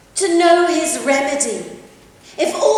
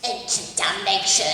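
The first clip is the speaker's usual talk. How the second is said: muttered aside; 9 semitones lower, 6 dB quieter than usual. Acted. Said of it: "Sorry, what? Thought you said something".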